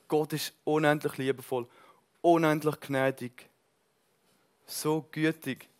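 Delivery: tender. Real, not acted. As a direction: let each word linger. Tender praise of God. (langsam und zärtlich)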